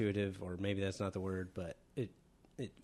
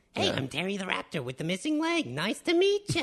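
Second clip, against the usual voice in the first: high, swooping, sing-song nerdy dweeb voice; 11 semitones higher, 7 dB louder than usual. Improvising a voice for a raptor character with a missing leg: Terry the Raptor dweeb voice. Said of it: "I think he'd sound like this".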